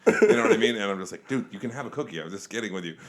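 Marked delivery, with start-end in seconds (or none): 1.3-3.0 softer, reassuring take-back. Retold or imitated. Reassuring the hurt stepson that he can have a cookie. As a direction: gently take the joke back. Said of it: "I have to scale it back".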